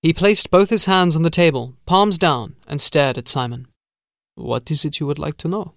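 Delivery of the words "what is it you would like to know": lilting steward. Acted. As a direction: hum the vowels, drag each ending. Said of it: "that subtle lilt in his voice, the way he hummed his vowels".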